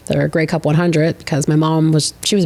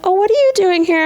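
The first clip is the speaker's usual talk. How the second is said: high, sing-song imitation of the girls; mock girly surprise; 13 semitones higher than usual. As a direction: play a sweet but patronising dancer, pitched up. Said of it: "they're like".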